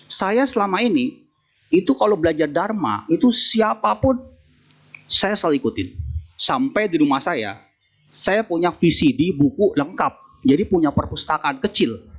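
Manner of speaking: lightly voiced man bragging about his books; proud layman boasting.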